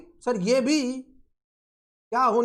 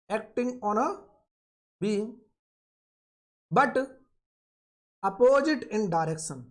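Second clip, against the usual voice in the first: very slow, word-by-word dictation for note-taking; much slower than usual. Shown as a demonstration. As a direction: spell it out slowly so students can write it down. Teacher dictating a definition slowly. (धीमे-धीमे लिखवाना)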